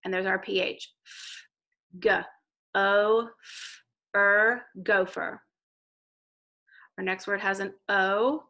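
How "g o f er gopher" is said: each sound said apart then gopher slowly; teacher blending sounds into gopher. Shown as a demonstration. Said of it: "go to the beginning of the word".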